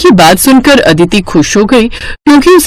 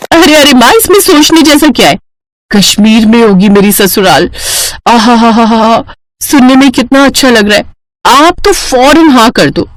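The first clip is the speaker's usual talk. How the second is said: eager daughter Aditi. Acted. Daughter thrilled at in-laws in Kashmir, eager. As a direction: gush happily about the match.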